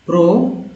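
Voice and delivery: प्रोक्योरमेंट split into pro, kyor, ment with pauses; teacher piecing together प्रोक्योरमेंट; part-by-part reading. Shown as a demonstration. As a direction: say प्रोक्योरमेंट in three separate chunks. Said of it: "यहाँ से मेंट बन गया".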